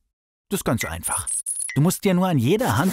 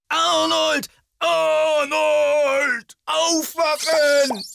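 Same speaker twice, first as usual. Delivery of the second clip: shouting wake-up; 13 semitones higher, much slower than usual. Acted. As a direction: yell to snap him awake. Shouting to wake hallucinating Arnold.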